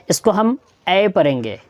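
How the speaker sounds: ए said as a short open e, like in "at"; ए here sounds like the e in "bed", not a long ए. Shown as a demonstration. Teacher to Hindi students, showing the short vowel sound. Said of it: "ए नहीं पढ़ेंगे, आ नहीं पढ़ेंगे".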